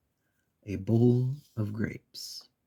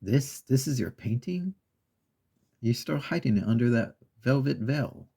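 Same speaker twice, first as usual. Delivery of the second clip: scornful disbelief, pitched a bit higher; scoffing; 3 semitones higher than usual. Retold or imitated. Cat scoffs at the mouse's painting, mildly scornful. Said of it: "The cat scoffs and says".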